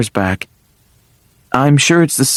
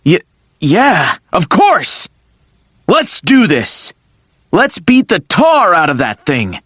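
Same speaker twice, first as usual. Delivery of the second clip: excited; 3 semitones higher than usual. Acted. Teacher rallying for battle.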